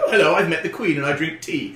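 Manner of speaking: hint of a mock posh British accent; lightly caricatured Englishman on American TV; stereotype British person. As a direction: play up the British stereotype a little. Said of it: "you get a British person".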